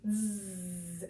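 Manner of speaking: "Z," as a long voiced buzz. Shown as a demonstration. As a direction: hold the "Z," buzz steadily. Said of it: "as long as you can".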